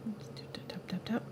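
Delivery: soft whispered tap count; whispering. Real, not acted. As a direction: breathe it out under the breath. Tapping brush, whispered count.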